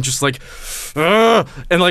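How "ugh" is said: mock shaky groan of dread; nervous groan. Player aims at the noise with shaking hands, mock nervous groan. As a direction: act out trembling while waiting. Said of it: "like, hands shaking".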